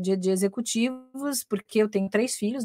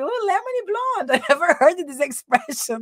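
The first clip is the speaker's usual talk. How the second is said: amused surprise; 8 semitones higher than usual. Retold or imitated. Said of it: "Eu falei".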